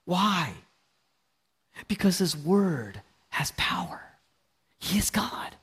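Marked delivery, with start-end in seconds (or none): 1.9-5.6 hushed, breathy sermon whisper. Acted. Preacher whispering to the congregation about God's word. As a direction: lean in and whisper the truth.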